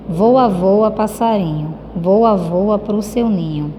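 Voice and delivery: slow, gentle recited verse; poem reading. Shown as a demonstration. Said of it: "leia em voz alta este trecho".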